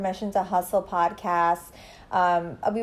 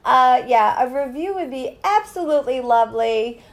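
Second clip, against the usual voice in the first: sweet cabin-crew politeness; polite stewardess request; flight attendant; 3 semitones higher, 3 dB louder than usual. Pretend. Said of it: "like an airline stewardess".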